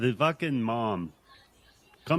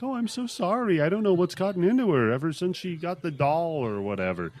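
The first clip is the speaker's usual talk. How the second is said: apologetic mom; 4 semitones higher than usual. Retold or imitated. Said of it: "the mom instead is like".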